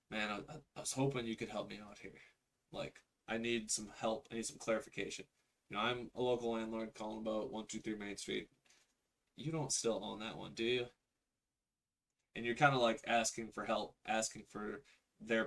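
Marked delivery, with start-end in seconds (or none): 0.1-10.9 confused skeptic. Shown as a demonstration. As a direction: sound unsure of your own understanding. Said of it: "the confused skeptic tonality".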